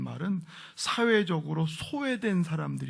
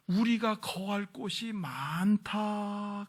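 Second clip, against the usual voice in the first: drawn-out quote; 4 semitones higher, much slower than usual. Acted. Preacher quotes Jesus, drawing it out.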